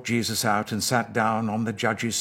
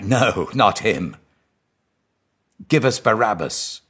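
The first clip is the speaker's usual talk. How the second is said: crowd shouting; 2 semitones higher, 6 dB louder than usual. Acted. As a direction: bellow the refusal back at Pilate. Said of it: "They shouted back".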